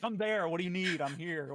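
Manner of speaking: imitating a man eager to be needed; eager helper imitation. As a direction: jump in as the keen guy. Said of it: "He'll be like".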